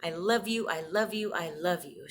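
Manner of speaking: lightly voiced grandma, affectionate; fond quote. Granddaughter recalling grandma's goodnight words, tender. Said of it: "She used to say".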